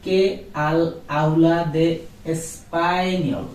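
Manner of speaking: español said the Spanish way, with an ñ sound. Shown as a demonstration. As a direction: say español as Spanish espaniol, not espanol. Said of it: "not español".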